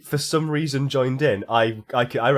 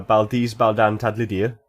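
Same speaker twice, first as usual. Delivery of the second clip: Welsh accent. Real, not acted. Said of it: "Why did that sound Welsh?".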